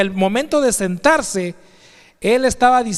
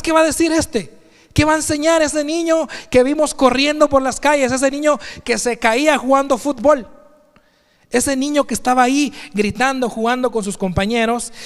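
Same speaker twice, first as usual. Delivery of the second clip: higher, incredulous voice of the watching crowd; skeptical townsfolk; 5 semitones higher than usual. Retold or imitated. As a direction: voice the doubting neighbours, raised. Crowd doubting the young Jesus. (la gente del pueblo, incrédula y con voz más aguda)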